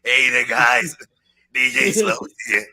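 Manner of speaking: Slopes impression. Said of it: "my throat is too fucked up to do the fucked up voice".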